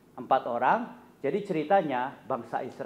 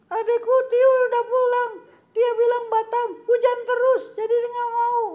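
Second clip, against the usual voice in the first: put-on very high childlike puppet voice, pouting; a little puppet friend sadly telling news; squeaky puppet voice; 7 dB louder than usual. Puppet Kobun telling the host his brother stayed away, high puppet voice.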